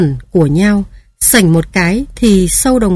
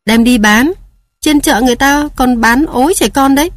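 tearful; 5 semitones higher than usual. Acted. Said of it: "Dì tôi nói rừng rưng".

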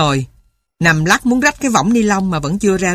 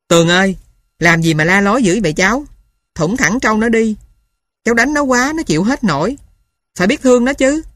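raised calling voice, higher at the end; 3 semitones higher than usual. Acted. Uncle calling to Tường over the field, calling out. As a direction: call across the field to the boy. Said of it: "Tôi kêu nó nói".

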